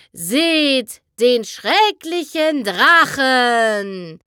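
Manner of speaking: smiling stage declamation, forced; declaiming through gritted teeth. Acted. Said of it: "deklamierte Trixie lächelnd durch die zusammengebissenen Zähne". (deklamierend durch zusammengebissene Zähne)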